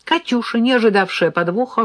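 ordinary delivery, nothing marked

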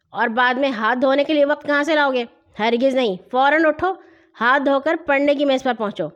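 put-on mildly forceful older-brother scolding; stern orders. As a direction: order them up, allow no argument. Brother orders children away from food. (سختی سے حکم دیتے ہوئے)

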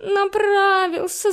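high, slow whiny whimper; whimpering cat. A narrator's reading. Caught cat whimpering to the girl, whiny. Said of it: "захныкал кот".

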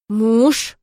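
plain reading voice

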